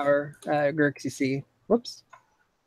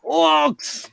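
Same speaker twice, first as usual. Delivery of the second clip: high, loud alarmed yell of "Orcs"; frantic lookout cry; 14 semitones higher, 8 dB louder than usual. Acted. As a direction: shout the warning across the camp. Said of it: "he's just yelling out loud".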